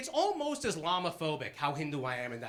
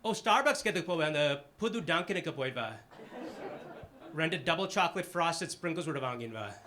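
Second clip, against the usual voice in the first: Boston family talk. Retold or imitated. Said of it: "the kinds of conversations that happen in our house".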